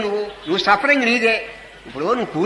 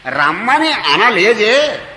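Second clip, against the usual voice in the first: very slow quote; 3 dB louder, much slower than usual. Retold or imitated. Devotee quoting god's words.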